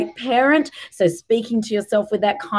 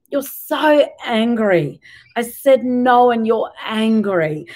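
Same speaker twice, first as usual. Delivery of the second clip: slow calm empathy. Shown as a demonstration. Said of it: "So you might say to a two-year-old".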